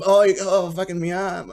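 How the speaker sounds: mock crying. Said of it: "He's done the".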